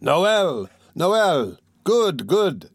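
high, joyful cheering; people shouting. A narrator's reading. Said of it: "shouted the people".

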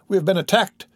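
high panicked cry of alarm; panicked scream. A narrator's reading. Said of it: "screamed the manager".

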